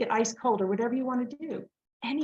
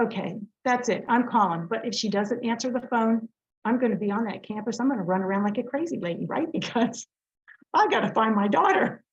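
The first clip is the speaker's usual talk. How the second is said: retold panic. Retold panic about daughter.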